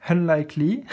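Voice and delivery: self-conscious try at English pronunciation; careful English accent. Shown as a demonstration. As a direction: attempt UNLIKELY with a polished English accent. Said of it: "de soigner mon accent anglais".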